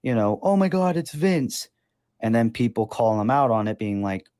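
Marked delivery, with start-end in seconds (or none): 0.0-1.7 high, hammed-up mock amazement; mock gasp. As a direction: fake a gasp of discovery. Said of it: "him on Twitter being like".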